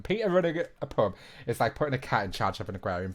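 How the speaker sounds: put-on London accent, rattled off fast. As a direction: slip into a quick London accent. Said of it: "I'm gonna go into a London accent".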